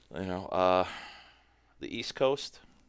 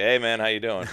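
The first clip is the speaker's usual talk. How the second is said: louder, chuckling hello; casual laugh-through hi; laughing greeting; 4 semitones higher, 10 dB louder than usual. Retold or imitated. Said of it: "And I'm like".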